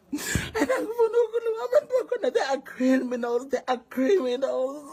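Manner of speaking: choked up, fighting tears; crying while talking. Real, not acted. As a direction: voice breaking through tears as she speaks. Distressed friend describing scammers.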